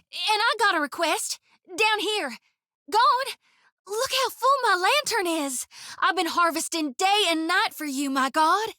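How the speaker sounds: high, soft, eager offering; hushed and trembling, desperate to please; pleading awe. Acted. Priestess showing Gon her full lantern, high hushed pleading.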